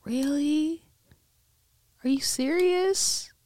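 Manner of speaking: high, incredulous "Really?" slowing on "serious"; can't believe the ending; stunned disbelief. Retold or imitated. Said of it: "I'm like".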